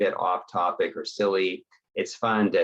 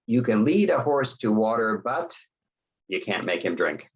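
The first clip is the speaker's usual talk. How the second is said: raised pitch on "but", then a pause before "you can't make him drink"; fill-in-the-blank prompt; 2 semitones higher than usual. Shown as a demonstration. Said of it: "do the first part".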